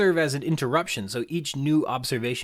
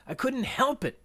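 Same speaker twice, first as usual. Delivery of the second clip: high-pitched exclamation, no added volume; mock kid's protest; 13 semitones higher than usual. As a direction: plead it high like a protesting kid. Quoting screaming kid's exclamation.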